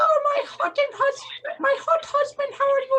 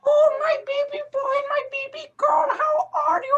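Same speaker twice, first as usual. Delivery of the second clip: mock-tearful creepy hermit mom. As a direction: wail it like a creepy old hermit. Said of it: "sound like a creepy hermit".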